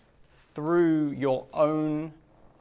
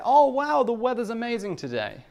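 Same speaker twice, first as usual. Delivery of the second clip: higher, louder mock-amazed wow; sarcastic delight; 8 semitones higher, 3 dB louder than usual. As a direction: gush about the rain with heavy sarcasm. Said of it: "Everything is said ironically".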